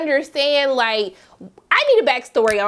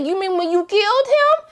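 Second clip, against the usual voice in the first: higher, offhand; casual reveal; 8 semitones higher than usual. Retold or imitated. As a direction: drop the bombshell lightly. Voicing a character's reveal.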